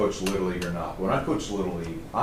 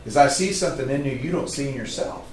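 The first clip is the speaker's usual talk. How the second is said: higher-pitched, impassioned urging; passionate; 5 semitones higher than usual. Retold or imitated. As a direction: plead with the team, pitch lifted. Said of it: "I got passionate about it".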